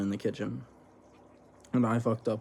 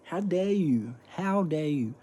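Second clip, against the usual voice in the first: mock indignation; 7 semitones higher, slower than usual. Mock outrage at coworker.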